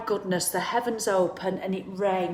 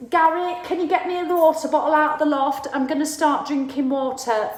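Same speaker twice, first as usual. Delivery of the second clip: lightly voiced viewer calling to husband, a bit higher; mock resolute viewer; 5 semitones higher than usual. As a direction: play the newly keen viewer shouting up to Gary. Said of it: "you go".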